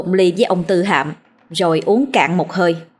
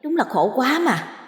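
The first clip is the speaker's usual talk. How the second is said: soft, grumbling ghost voice; a ghost complaining half under its breath; 3 semitones higher, 5 dB quieter than usual. Acted. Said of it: "vừa ngáp gió, vừa chửi đổng".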